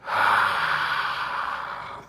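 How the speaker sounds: long slow low exhale; deep breath out. Shown as a demonstration. Teacher leads class in a deep exhale. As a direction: let a big breath out slowly. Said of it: "delicious breath".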